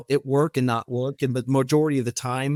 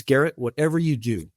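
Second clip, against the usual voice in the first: teary retold plea; 2 semitones lower than usual. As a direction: lightly voice the CEO's tearful warning. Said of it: "with tears in his eyes".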